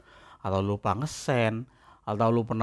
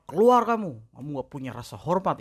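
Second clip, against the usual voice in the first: angry lecturer yell; 3 semitones higher than usual. Retold or imitated. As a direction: bark keluar kamu like a furious lecturer, then drop. Lecturer yelling at student.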